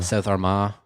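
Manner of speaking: amateur South Armagh twang; practising Northern Irish, South Armagh style; South Armagh accent attempt. Shown as a demonstration. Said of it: "trying to do the different areas".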